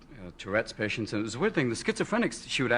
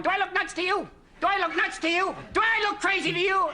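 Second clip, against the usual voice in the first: much higher, pleading questions; a doctor at the window quizzing passers-by, much higher; doctor acting crazy; 12 semitones higher than usual. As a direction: ask it up high, eyes wide. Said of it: "a guy waiting at the window going".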